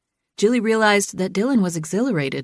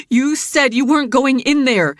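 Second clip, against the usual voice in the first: higher, louder accusing voice; angry reminder; 7 semitones higher, 5 dB louder than usual. A narrator's reading. Jilly reminding Dylan of his broken promise, angry. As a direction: throw his promise back at him. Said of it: "she angrily reminded him".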